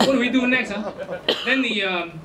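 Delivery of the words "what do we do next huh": light Malaysian English lilt; casual Malaysian-accented question. Retold or imitated. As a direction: imitate a Malaysian woman's accent. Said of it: "this Malaysian girl said".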